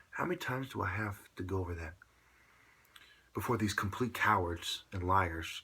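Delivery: calmly polite restatement; nice, polite. Shown as a demonstration. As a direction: say it nicely so they understand. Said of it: "I'm saying it in a nice, polite way".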